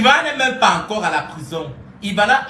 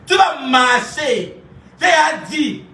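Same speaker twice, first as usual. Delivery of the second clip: mock threatening shout; 4 semitones higher, much slower than usual. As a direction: bark the order like a prison guard, half joking. Mock threat to Ivana in prison.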